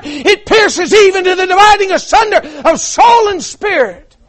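rising, urgent pulpit delivery; building preaching. Real, not acted. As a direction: build from firm talk to a high preacher's cry.

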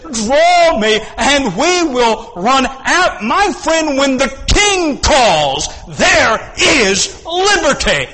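high, loud, slow preaching; full-throated sermon climax; preaching at full force. Acted. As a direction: proclaim it to the whole hall. Preacher calls out to congregation.

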